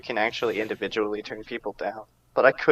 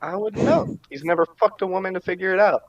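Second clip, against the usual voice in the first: mocking high voice; 8 semitones higher, 4 dB louder than usual. Mocking joke about a friend.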